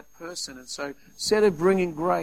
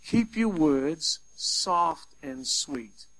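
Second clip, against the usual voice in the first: slow gentle quote; much slower than usual. Shown as a demonstration. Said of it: "A little quote".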